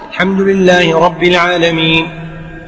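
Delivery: slow, drawn-out verse on a level tone; stretched, steady recitation; imam reciting. Shown as a demonstration. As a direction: recite unhurriedly as the leading imam. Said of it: "إذا كنت تقرأ خلف الإمام".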